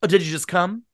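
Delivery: put-on booming eager drunk; owl-eyed drunk. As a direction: show off the books to the guests. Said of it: "give Gatsby a bad voice".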